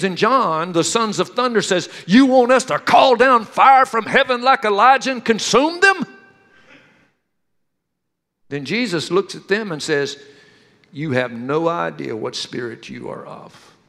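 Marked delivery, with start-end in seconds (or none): 2.1-6.0 fiery eagerness. Retold or imitated. Sons of thunder offer fire. 10.9-13.8 quiet rebuke. Retold or imitated. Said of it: "he rebukes them".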